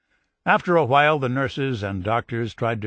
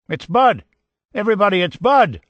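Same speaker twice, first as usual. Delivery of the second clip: high, loud joyful shout to the room; excited shouting; 8 semitones higher, 8 dB louder than usual. A narrator's reading. Girl shouting the news to the whole family. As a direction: cry it out to everybody in the house. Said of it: "he heard shouting".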